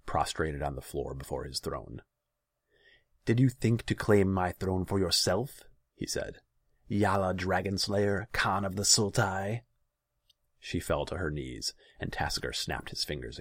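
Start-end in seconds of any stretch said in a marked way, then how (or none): 3.2-9.6 raised, louder voice of a mocking ruler; imperious tyrant. A narrator's reading. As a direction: accuse from the throne, louder and higher. Tyrant taunts his accused subject.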